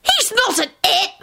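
high, drawn-out furious cry; enraged scream. A narrator's reading. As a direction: explode in blind rage. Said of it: "Tim screamed in a blinding rage".

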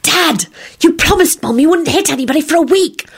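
high, urgent plea; warning. A narrator's reading. Daughter holding dad back from a fight, warningly. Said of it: "Rosie whispered warningly".

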